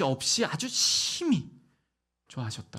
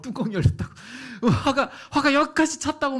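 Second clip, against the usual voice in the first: mock angry idiom; 9 semitones higher, 4 dB louder than usual. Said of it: "어떻게 표현해요, 우리가?".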